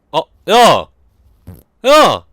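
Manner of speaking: loud, high-pitched outburst; outraged yelling. Pretend. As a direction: yell it in indignant disbelief. Streamer yelling at game mishap.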